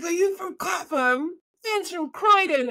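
high, excited retelling of a delighted acquaintance; high-pitched, eager mock exclamation; excited Irishman. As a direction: imitate someone thrilled to find common ground. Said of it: "like, from Ireland".

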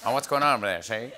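lightly voiced noir gumshoe, see?; tough-guy detective from an old movie; 1950s private eye. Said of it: "talking like a nineteen fifties private eye".

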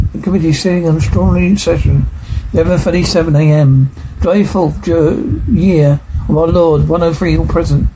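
fast official court reading; brisk clerk's formal record; formal proceedings read. Acted. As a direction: rattle off the minutes like a clerk.

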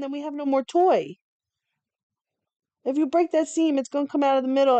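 usual speaking voice

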